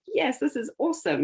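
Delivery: a lightly voiced goblin, pleased with itself; gleeful goblin. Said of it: "he's delighting in this".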